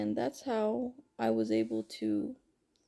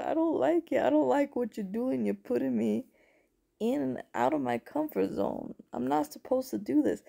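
upset protest; 4 semitones higher, 3 dB louder than usual. Retold or imitated. Retelling her protest to God.

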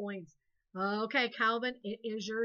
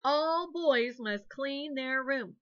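firm command; 2 semitones higher, 5 dB louder, much slower than usual. Shown as a demonstration. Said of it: "or you can use plural nouns".

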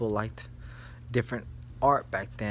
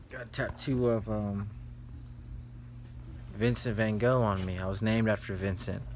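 tipsy; 3 dB quieter than usual. Real, not acted. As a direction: talk a little tipsy. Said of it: "I'm kinda tipsy right now. I've been drinking".

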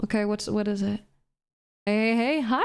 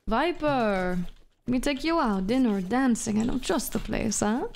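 lightly voiced suave French agent; playful flirt with a hint of French accent; Chamber. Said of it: "Do a chamber impression".

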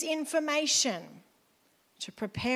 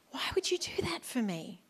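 soft, half-whispered question; hushed wonder; 5 dB quieter than usual. Acted. Someone who was helped asks the helper why, hushed wonder. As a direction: ask it gently, almost under your breath. Imagined grateful person asking why.

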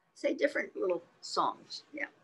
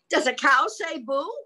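higher, animated story reading; picture-book reading; 8 semitones higher, 7 dB louder than usual. Acted. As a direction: lively question to a small child. Reads picture book to child.

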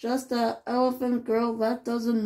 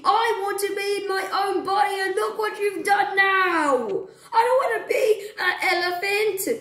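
upset outburst; 5 semitones higher than usual. Acted. Duck scolds the elephant for her wish, upset rant. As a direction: rant at her friend, near tears. Angry laughing-crying outburst.

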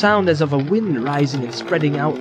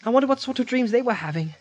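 Frodo voice; 8 semitones higher, 3 dB quieter, faster than usual. A narrator's reading. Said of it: "Frodo asked".

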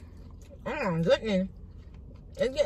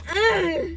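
exaggerated moan; 8 semitones higher, 4 dB louder than usual. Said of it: "eating like that".

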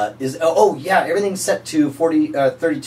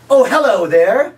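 high, slow, showy infomercial voice; cheesy pitchman; 8 semitones higher, 6 dB louder than usual. Pretend. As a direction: greet the viewer like a late night huckster. Pitchman greeting retake.

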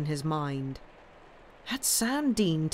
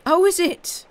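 much higher and louder, amused retort; good-humoured; 13 semitones higher, 9 dB louder than usual. A narrator's reading. Sam answering the captain's accusation, breezily amused. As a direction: toss it back with a hint of a laugh. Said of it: "with supreme good humour".

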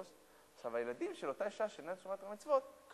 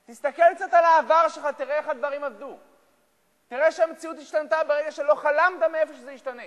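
loud, high preaching at full force; fiery preaching; 11 semitones higher, 15 dB louder than usual. Acted. Rabbi urging listeners never to despair, loud preaching.

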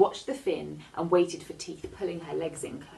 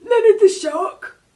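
high, loud, slow doubtful repeat; unimpressed shark; 17 dB louder, slower than usual. A narrator's reading. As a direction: drag it out, not sold on the name. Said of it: "He didn't sound impressed".

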